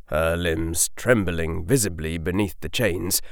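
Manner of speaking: ordinary delivery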